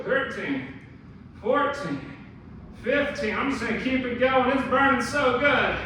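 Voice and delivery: talking while holding a deep squat; strained squat hold voice. Real, not acted. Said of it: "from being in the squat position".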